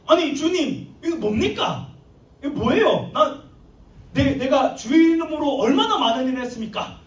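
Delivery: mildly hammed-up protest, questions piling up; indignant arguing. Shocked believer disputing with the Lord at judgment, indignant protest. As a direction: plead your case as if wronged. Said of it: "막 따지는 거예요".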